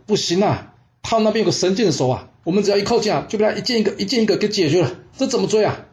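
high-pitched, mildly alarmed protest. Acted. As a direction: plead that it can't be done, pitched well up. 追兵向愚公差诉苦推托. (略带惊慌地高声推托)

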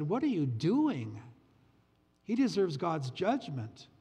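slow, disapproving Pharisee voice, lightly done; scornful Pharisee. Retold or imitated. Pharisees outside the door scolding the father, slow and scornful. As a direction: drag it out like a judging onlooker.

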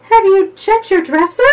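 calling out across the room; called out. A narrator's reading. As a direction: call after him as he leaves. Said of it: "Lucy called".

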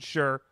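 "sherbet" in two pieces, SHER, BUT; sherbet ending in BUT. Shown as a demonstration. Co-host insisting on the dictionary's way, sherbet ending in BUT. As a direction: split "sherbet" and end it on but. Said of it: "pronounce it sherbet".

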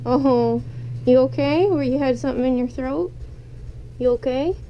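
startled concern for the pet; worried call. Real, not acted. Pet chokes, owner worried.

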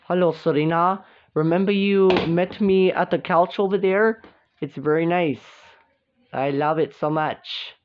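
put-on boyfriend figure in a southern accent. New boyfriend greets Serena, southern accent. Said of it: "you do have a southern accent".

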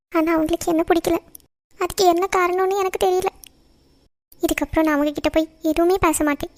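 tearful prayer. Acted. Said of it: "நீ ஏன் அழுதுட்டே இருக்க".

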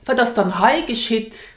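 irritated "Wat das dann hei geschieht?" with falling end; annoyed question. Shown as a demonstration. Teacher showing an annoyed question about what happens. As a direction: demand it with annoyance. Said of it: "to show annoyance or to show anger".

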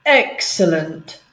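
drawn-out, very slow cat purr. Acted. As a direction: savour the word like a smug cat. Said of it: "purred the yellow cat".

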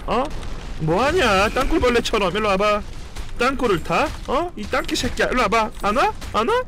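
taunting. Real, not acted. Taunting enemy in game.

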